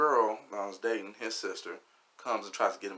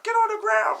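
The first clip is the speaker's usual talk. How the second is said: shouted police command; 9 dB louder than usual. Retold or imitated. Police slam the man down, high loud shout. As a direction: yell the slam and order high and stretched.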